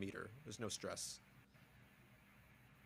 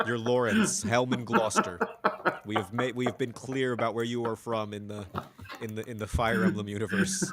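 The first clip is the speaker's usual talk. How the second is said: mock posh English; 6 dB louder than usual.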